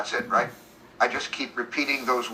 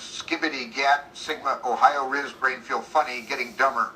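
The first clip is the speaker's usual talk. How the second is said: slurred words. Acted. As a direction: let the words slur together. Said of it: "Slurring words".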